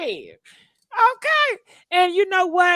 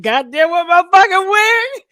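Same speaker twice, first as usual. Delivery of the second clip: frantic yell; 5 semitones higher, 7 dB louder than usual. Retold or imitated. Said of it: "I said".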